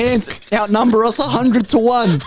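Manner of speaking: high angry villain rant; snarling villain. Retold or imitated. Hopper raging at his gang about the ants, high angry snarl. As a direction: spit it out like a furious bug boss. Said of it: "And he goes".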